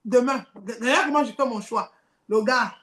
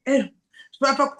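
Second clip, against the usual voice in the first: slow voice; much slower than usual. Acted. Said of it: "L'autre voix aussi me dit".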